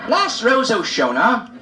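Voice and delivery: hammed-up rabbi chanting to his flock; mock rabbi sermon. Rabbi's new sound mimicked.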